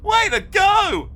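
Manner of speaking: high, loud, slow cheer; shout. A narrator's reading. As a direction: whoop it out with glee. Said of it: "shouted Augustus".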